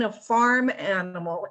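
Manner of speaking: FARM stressed in "farm animal". Real, not acted. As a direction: lean on the word "farm". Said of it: "I emphasize the word farm".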